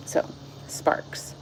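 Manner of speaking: whispered title, barely voiced. Real, not acted. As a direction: breathe the chapter title out softly. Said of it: "a different person read this the first time".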